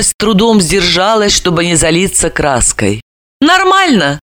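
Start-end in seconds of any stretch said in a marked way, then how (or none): 3.4-4.2 high, breezy fake ease; deliberately carefree. A narrator's reading. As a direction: toss it off as if nothing happened. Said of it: "нарочито беспечно произнесла". (нарочито беспечно)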